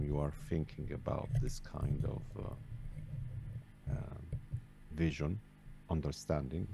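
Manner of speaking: faint, distant voice far from the mic; barely audible. Real, not acted. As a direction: speak very softly, off-mic. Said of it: "your voice is very faint".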